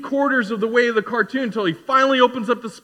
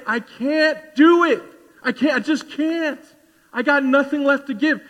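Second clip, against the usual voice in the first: pleading refusal; 6 semitones higher than usual. Acted. Acted refusal of request to help.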